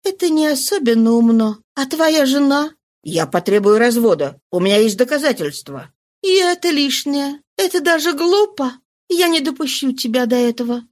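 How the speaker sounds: lightly voiced disapproving mistress. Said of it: "Она сделала недовольный вид".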